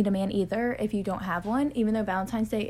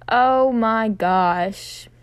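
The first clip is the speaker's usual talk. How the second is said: gushing; 7 dB louder, much slower than usual. Real, not acted. Gushing over the show.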